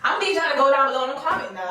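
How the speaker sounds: loud, quick order breaking into laughter; mock bossy. Vlogger telling viewers to comment, loud mock order. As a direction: bark it fast, half laughing. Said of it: "that's ghetto".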